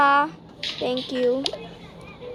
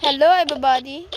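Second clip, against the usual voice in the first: usual speaking voice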